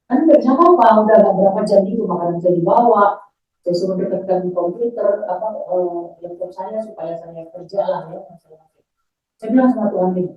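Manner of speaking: ordinary talk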